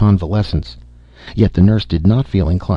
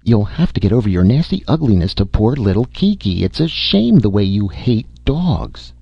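sharp scolding; 4 semitones higher than usual. Acted. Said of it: "She addressed her son sharply".

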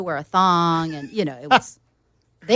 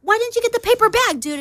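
higher, pushy demands from the front seat; mock passengers ordering Conan around, louder; bossy passengers; 9 semitones higher, 4 dB louder than usual. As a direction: boss him around like an errand boy. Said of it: "They're like".

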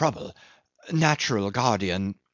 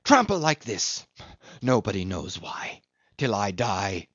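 bitter rant. A narrator's reading. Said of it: "without a trace of humility".

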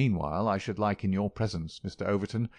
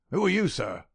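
put-on high sharp old voice; crackling old miser; 10 semitones higher, 5 dB louder than usual. A narrator's reading. Miser questioning the young man, high crackling voice. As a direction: demand his name.

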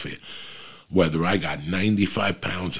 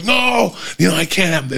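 mock protest; 10 semitones higher than usual. Refusing the beer from the fans, mock shouting. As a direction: cry out no in mock alarm. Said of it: "And I'm like".

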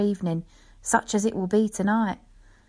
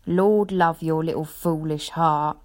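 fond dismissal. Acted. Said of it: "I answered".

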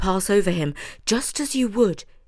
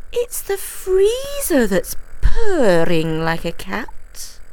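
slow musing mouse; 4 semitones higher, 5 dB louder, slower than usual. Acted. Judith Mouse voiced.

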